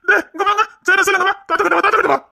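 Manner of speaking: high-pitched, fussing coax; grandfatherly high sing-out; coaxing children. Acted. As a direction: coax the crying little ones over in a high voice.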